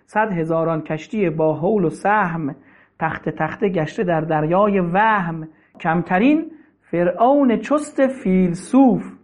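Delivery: slow, measured verse recital; poem recital. Acted. Preacher reciting Rumi's couplets to listeners, measured recital. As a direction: let each line of the couplet land.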